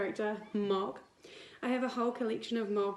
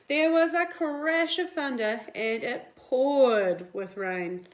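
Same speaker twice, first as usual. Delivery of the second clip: lively picture-book read-aloud; reading to children; 3 dB louder than usual. A narrator's reading. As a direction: read it like storytime for little kids. Teacher reads picture book to class.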